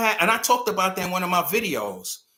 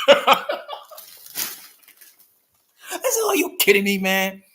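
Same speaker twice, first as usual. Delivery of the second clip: louder incredulous repeat; 3 semitones higher, 4 dB louder than usual. Retold or imitated. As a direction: push it out louder in disbelief.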